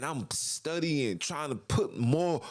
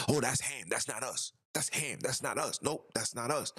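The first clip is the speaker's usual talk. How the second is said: mock dismissive brush-off, trailing softer; imitating people brushing off their heritage, a bit softer; dismissive denial; 4 dB quieter than usual. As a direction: shrug it off like it's someone else's story. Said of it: "deny being African".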